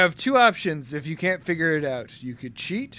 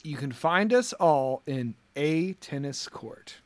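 slow deliberate reading; 3 semitones lower, 5 dB quieter, slower than usual. Shown as a demonstration. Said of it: "rereading the riddle slowly".

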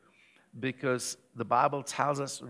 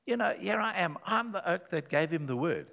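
mock self-pity; 5 semitones higher than usual. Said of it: "I've heard myself complaining".

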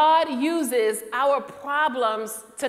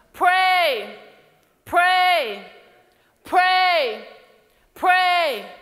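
full-force preaching; 2 semitones higher than usual. Acted. Pastor voicing God's call to pray, preaching hard. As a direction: build the call to confess to a peak.

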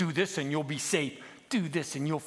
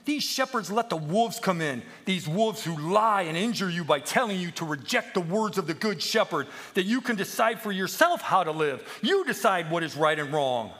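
indignant accusation; 7 semitones higher, 5 dB louder than usual. Acted. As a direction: rail at the sheep about their bad shepherds. Peep indignantly addresses the misled sheep.

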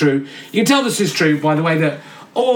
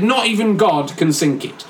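ironic tone. Retold or imitated. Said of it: "With an ironic tone, he said".

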